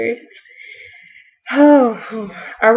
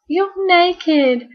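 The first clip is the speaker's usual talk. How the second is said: 1 shocked Donna; 10 semitones higher than usual. Retold or imitated. Donna says.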